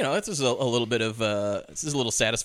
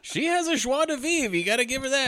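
mock admiring; 12 semitones higher than usual. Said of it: "joking praise".

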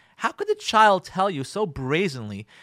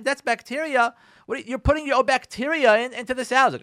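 higher, louder accusing rant; scornful scolding; 8 semitones higher, 6 dB louder than usual. Acted. Wife scolding husband at the table, scornful. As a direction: scold him hard.

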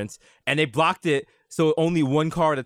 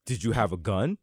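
low, slow, dropping trailer voice; ominous game narrator; 6 semitones lower, 3 dB quieter, slower than usual. Retold or imitated. Mocking the game's cutscene narration with a low ominous voice. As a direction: read it like a grim game intro, deep and slow. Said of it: "they were like".

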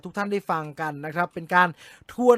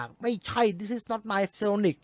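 mocking angry fans; 3 dB quieter, much slower than usual. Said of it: "เชิญแฟนลุมด่า".

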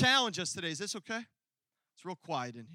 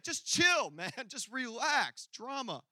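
doctor calming; 4 semitones higher, slower than usual. Retold or imitated. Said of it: "And he's like".

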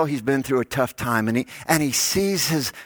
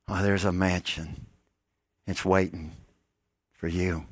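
tender comfort; 4 semitones lower, 3 dB quieter than usual. Acted. Jesus comforting his disciples.

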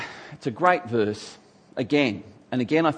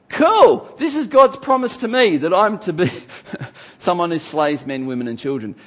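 much higher and louder, gleeful mock zealot; mock bloodthirsty glee; 4 semitones higher, 6 dB louder than usual. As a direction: ham up a gleeful would-be slayer. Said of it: "read a verse like that and go".

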